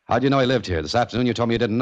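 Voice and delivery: confronting the intruder who lied, pressing hard; sharp confrontation. Acted. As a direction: catch him out in the lie, fast. Detective confronts lying intruder.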